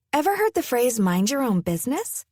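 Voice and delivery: sugary with a hidden jab; sweet tone, sharp meaning; sweetly sarcastic. Acted. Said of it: "she replied sweetly".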